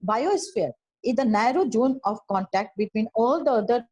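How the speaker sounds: teacher reading a definition to students, slow and measured; slow textbook reading. Acted. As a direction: read the definition out slowly and deliberately. Reads definition from the book.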